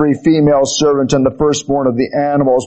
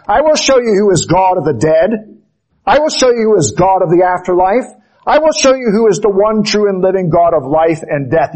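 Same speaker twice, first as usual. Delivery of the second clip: commanding voice of God; 4 semitones higher than usual. Acted. Preacher voices God's challenge.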